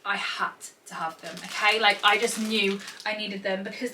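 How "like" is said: ordinary delivery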